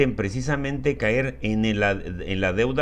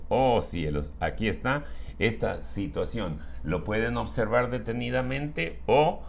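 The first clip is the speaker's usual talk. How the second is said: hammy stage actor; 3 semitones lower than usual. Acted. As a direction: ham up the big reveal. Theatrical reveal to the audience. (actor teatral exagerado)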